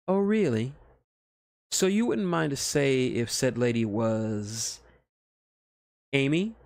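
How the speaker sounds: put-on teasing her boyfriend about another girl. A narrator's reading. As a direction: needle him with a sly grin. Teasing, far and louder.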